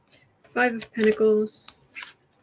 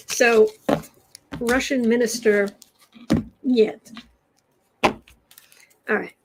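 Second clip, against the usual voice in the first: put-on terrible Russian accent. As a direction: play a deliberately bad Russian accent.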